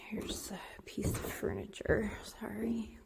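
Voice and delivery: whisper. Real, not acted. Apologizing aside, whispered.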